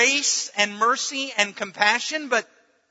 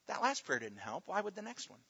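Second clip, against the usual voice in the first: whispered taunt; 14 dB quieter than usual. Acted. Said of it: "Satan is whispering in your ear".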